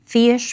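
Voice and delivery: 'fiish' slow and stretched, fish drawled; Southern drawl. Shown as a demonstration. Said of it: "fiish for fish".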